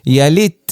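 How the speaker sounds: ইয়ালিত ending on a firmly closed t; sound shut off. Shown as a demonstration. Teacher models sakin for learners, sound shut off. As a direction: cut the voice at the t of ইয়ালিত. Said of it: "বদ্ধ করে দিবে আওয়াজ".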